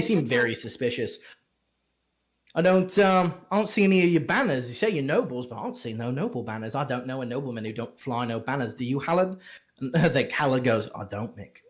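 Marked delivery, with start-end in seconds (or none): 2.5-9.4 fast, scornful guard picking holes; suspicious guard. Acted. Guard accusing the nobles of hiding their banners, fast and scornful. 10.9-11.6 low, quiet sidekick guard; lower guard voice. Acted. Second guard answering his partner, low and deadpan.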